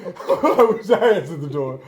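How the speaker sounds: laughing through the words; giggling as he says it; words spilling out on a laugh. Real, not acted. Laughing retelling of own regret.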